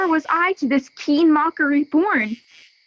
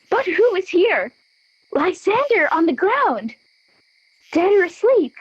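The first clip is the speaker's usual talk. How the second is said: alarmed; 6 semitones higher than usual. Acted. Helena finds Lysander on ground.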